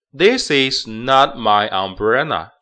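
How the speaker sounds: slow "this is" joined, "not" unreleased; linking demo. Shown as a demonstration. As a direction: say "this is" linked, drop the t of "not". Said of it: "This跟is要连读". (慢速连读示范)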